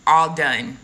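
"all done" as a sound-alike for Adon; pronunciation demo. Shown as a demonstration. Showing viewers how the Hebrew word sounds, "all done" said clearly. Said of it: "almost like all done".

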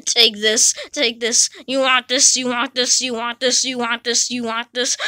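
low creepy taunt. Acted. Ghost menacing, lower.

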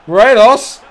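urgent shout at the striker; shouted name. Real, not acted. Shouting player's name as he shoots.

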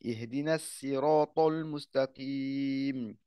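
measured chanted recitation; Quran recitation. Acted. Teacher recites al-Fatiha for the class in chanted tajwid. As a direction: chant each verse with held vowels.

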